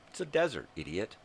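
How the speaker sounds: sharp high angry jab; angry outburst. Real, not acted. Ranting vlogger scolding neighbor about dogs, angry outburst. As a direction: snap it at her like she's an idiot.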